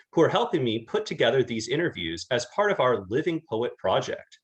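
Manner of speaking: lively scripted intro with swinging pitch; podcast host introduction. Acted. Host introducing a poetry series to listeners, upbeat announcer read. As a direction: present the show and guest to listeners.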